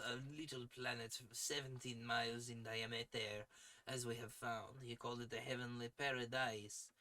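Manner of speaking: lightly put-on French accent for the villain; a hint of a French accent, grand and villainous; 1 nonsense French accent. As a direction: read the villain's speech in a mock French accent. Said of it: "French because I picked the wrong accent".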